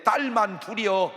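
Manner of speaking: slow, regretful "딸만 둘이요" with the weight on 딸만; a father admitting only daughters, slow and let down; disappointed. Shown as a demonstration. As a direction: sigh out 딸만 like only daughters is a letdown. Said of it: "이렇게 말을 해요".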